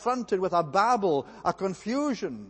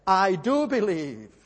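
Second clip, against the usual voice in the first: cry of distress; 4 dB louder, slower than usual. Retold or imitated. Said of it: "the father cries out in distress".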